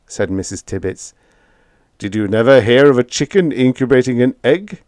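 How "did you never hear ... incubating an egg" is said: smooth, lightly voiced lodger; silky and unhurried; smooth vampire voice. A narrator's reading. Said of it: "he said smoothly".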